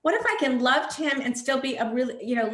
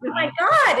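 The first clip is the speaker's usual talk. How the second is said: laughing; 7 semitones higher, 8 dB louder than usual. Real, not acted. Laughing after a guest's joke.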